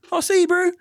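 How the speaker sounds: high, loud chill bro farewell; laid-back bro. Retold or imitated. Shop guy farewelling the thief, high loud bro voice. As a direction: wave him off like a relaxed surfer.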